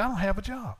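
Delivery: retold plea, pitched high; praying complaint. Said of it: "I'm just praying".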